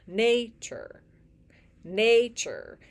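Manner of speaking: nature said with the first syllable strong; stress on NA. Shown as a demonstration. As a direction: nature with weight on the first syllable, light ending. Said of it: "there's a stressed syllable and there's an unstressed syllable".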